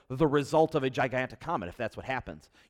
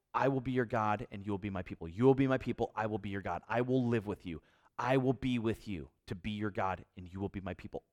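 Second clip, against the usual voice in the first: lower, softer covenant voice; quiet solemn quote; 4 semitones lower, 4 dB quieter than usual. Acted. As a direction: speak God's promise gently, hushed. Quoting God's covenant promise.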